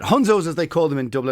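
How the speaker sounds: Dublin accent. Shown as a demonstration. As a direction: correct the accent to proper Dublin on Hunzos. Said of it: "That's the wrong accent".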